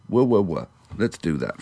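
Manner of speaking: ordinary delivery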